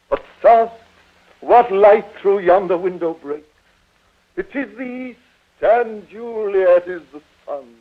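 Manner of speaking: grand Shakespearean recitation with long pauses; theatrical declamation. Acted. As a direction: draw out the verse like a stage tragedian. Father declaims Romeo's speech over daughter.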